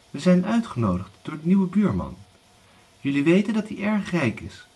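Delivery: high, eager mother's voice; scheming widow mother. Acted. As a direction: sell the plan with excitement. Widow tells daughters the news.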